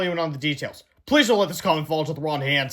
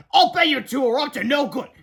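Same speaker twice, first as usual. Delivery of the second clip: higher, accusing grumpy voice; suspicious principal; 8 semitones higher, 4 dB louder than usual. A narrator's reading. Principal accusing George and Harold, suspicious. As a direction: sneer at the two boys.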